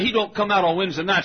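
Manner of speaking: imitated Southern deacon. Deacon correcting visitor about Wednesdays, high Southern dialect. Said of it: "This is the way all of us Southerners talk".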